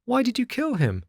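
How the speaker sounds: high, aghast question; a child confronting the killer; shocked puppet boy. Acted. Pinocchio shocked at the cat.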